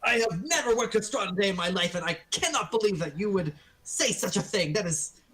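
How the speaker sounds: fast, offended protest; a touch of offended merchant; indignant shopkeeper. Acted. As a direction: deny it in a flustered rush.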